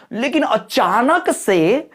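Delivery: अचानक punched high and stretched after normal words; sudden word stress. Shown as a demonstration. Teacher showing students sudden force on one word, stressed अचानक. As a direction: lean hard into अचानक, pitch jumping up. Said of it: "जैसे मैंने अभी बोला".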